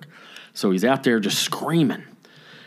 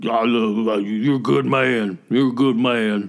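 put-on drunk Marine. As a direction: imitate a drunk gushing thanks. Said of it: "he was just drunk".

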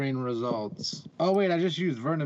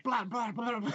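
machine gun sounds; 6 semitones higher, 4 dB quieter, slower than usual. Pretend. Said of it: "I'm like".

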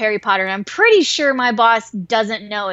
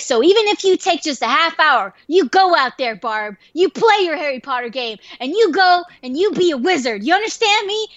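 building, higher-pitched rallying commands; hammed-up heroic urging; mock patriotic pep talk; 5 semitones higher than usual. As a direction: urge them on like a coach before battle. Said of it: "there was, like, this patriotic music".

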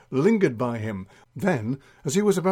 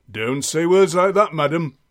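scolding sergeant; 3 semitones higher, 6 dB louder than usual. Acted. Sergeant scolds for forbidden word.

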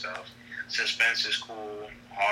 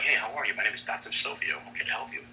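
lightly voiced polite commercial doctor; a hint of a smooth TV doctor reassuring the viewer. Shown as a demonstration. Actor shows his commercial doctor read, lightly voiced polite doctor. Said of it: "I had to change my whole way of speaking".

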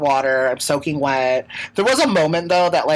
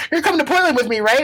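high, chirpy bus lady; a mock bus lady, pitched up; 10 semitones higher, faster than usual. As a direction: voice the cheerful driver lady higher. Bus lady voiced in story.

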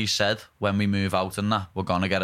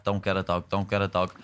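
nagging parents; 2 semitones lower than usual. Retold or imitated. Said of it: "They were like that to Laura".

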